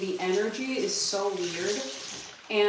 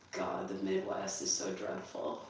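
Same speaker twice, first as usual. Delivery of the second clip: whispered aside; 9 dB quieter than usual. Real, not acted. Jokey aside about the Midwest.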